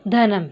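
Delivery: teacher's slow, careful धनम; anusvara demo. Shown as a demonstration. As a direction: model धनम for the class, closing on a full म. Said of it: "इसका उच्चारण होगा".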